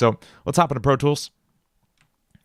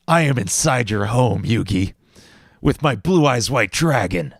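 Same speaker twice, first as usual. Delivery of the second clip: Seto Kaiba voice. Retold or imitated. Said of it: "doing my Seto Kaiba voice".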